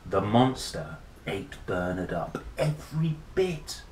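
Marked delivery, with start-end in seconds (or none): 2.6-3.8 hushed whisper. A narrator's reading. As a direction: drop to a spooky whisper. Monster eats Bernard.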